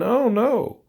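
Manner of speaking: a mock Trump spokesperson insisting it was the other side. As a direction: brush it off like a spin doctor. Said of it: "spokesperson ... is saying".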